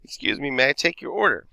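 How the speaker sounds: Mary trying to get attention. Acted. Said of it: "Mary, trying to get their attention".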